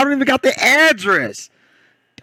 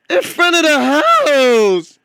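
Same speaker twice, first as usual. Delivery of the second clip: loud punchline; 6 semitones higher, 3 dB louder, slower than usual. Real, not acted. Repeating punchline loudly, slowed.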